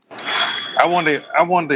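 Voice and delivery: breathy hushed wonder, slow; whispered musing. Real, not acted. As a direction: breathe it out as you think. Musing aloud.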